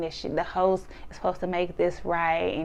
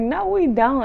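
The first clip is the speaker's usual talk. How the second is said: higher, louder quoted denial; mock protest; 7 semitones higher, 5 dB louder, slower than usual. Narrator retelling her denial to the group, mock protest. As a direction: imitate a loud, high protest.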